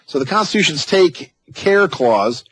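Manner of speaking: slow Texan read of the clause; Texas accent. Shown as a demonstration. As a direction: stretch take care Texas-style. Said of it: "use the Texas accent".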